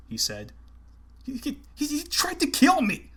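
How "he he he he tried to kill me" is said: frightened stammer, much higher, rising to a shout; panicked man stammering he was nearly killed. A narrator's reading. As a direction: stutter out the words in terror. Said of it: "Fisk stammered".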